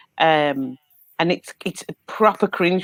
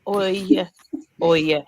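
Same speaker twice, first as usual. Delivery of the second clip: Cockney oi; slower than usual. Retold or imitated. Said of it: "like a black person going".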